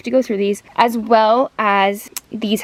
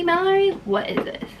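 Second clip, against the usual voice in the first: shocked; 8 semitones higher than usual. Real, not acted. Scolding herself over dirt.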